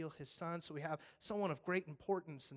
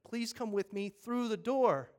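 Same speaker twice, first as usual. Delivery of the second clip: earnest firefighter; 4 semitones higher than usual. Acted. Fireman pleading with people to leave, earnest. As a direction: plead sincerely with them. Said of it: "And the fireman goes".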